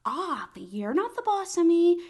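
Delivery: high, loud, slow mock-bratty retort; defiant shout. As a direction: throw it back like a stubborn kid.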